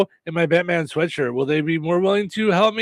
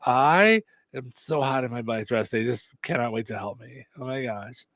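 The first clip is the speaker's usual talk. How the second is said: softer, breathy-free mock vanity, hammed-up and low-key; vain hot girl voice; 3 semitones lower, 4 dB quieter than usual. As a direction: purr your own praises like a self-obsessed beauty. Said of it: "I'm gonna talk like this".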